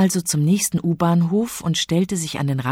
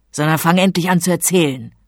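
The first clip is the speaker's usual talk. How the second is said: annoyed; 3 semitones higher, 6 dB louder than usual. Acted. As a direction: tell her off impatiently. King tells her off. (ungeduldig schimpfend)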